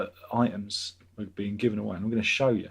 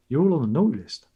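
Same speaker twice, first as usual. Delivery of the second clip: Father Progmus; 3 semitones higher, 5 dB louder, faster than usual. Pretend. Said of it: "Father Progmus".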